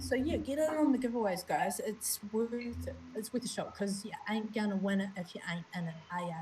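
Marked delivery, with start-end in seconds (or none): 1.8-6.3 Kiwi accent. Real, not acted. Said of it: "that sounded so Kiwi right then".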